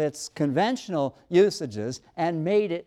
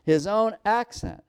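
put-on repeated quote, raised in pitch, pointing up "accent"; stress on accent; 4 semitones higher than usual. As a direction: underline "accent" as the key word. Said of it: "wanting to emphasize that word accent".

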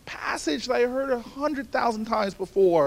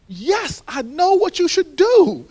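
put-on high, slow, louder wise old lady; a mock-mystic old neighbor; old woman insisting; 6 semitones higher, 8 dB louder, slower than usual. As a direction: press it like she knows a secret.

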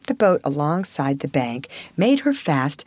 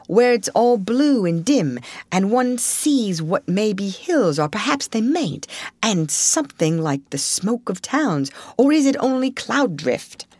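higher, dreamy questioning; wondering Mole; 4 semitones higher than usual. Acted. Mole asks Rat what lies beyond, high wonder. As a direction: lift the voice, lingering on the distant view.

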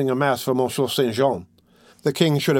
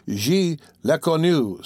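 jeering students; 5 semitones higher, slower than usual. A narrator's reading. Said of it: "said some".

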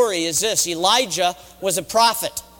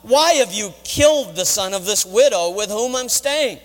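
anguished appeal, stressed WHY, mildly raised voice; impassioned plea to the Lord; crying out to God; 2 semitones higher, 3 dB louder than usual. Acted. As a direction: cry out in prayer, demanding an answer. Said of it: "he cried out to the Lord".

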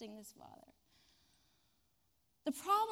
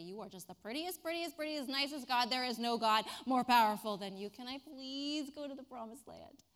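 butter God up; schmoozing. Acted. Moses flattering God, mock sweet. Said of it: "schmooze God".

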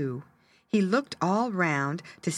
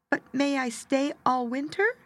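hopeful little bird; 8 semitones higher than usual. Acted.

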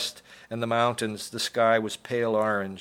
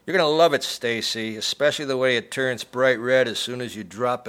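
louder, cruel gloating threat; menacing taunt; 3 dB louder than usual. Acted. Noonan threatening Stacy while holding the lobster, menacing. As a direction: relish her discomfort, coldly.

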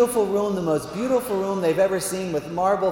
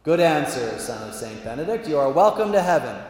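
lightly voiced divine approval; measured, grand pronouncement; God the Father; 3 dB louder than usual. God admitting the Benedictine to heaven, lightly pompous verdict. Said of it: "So that's how he talks".

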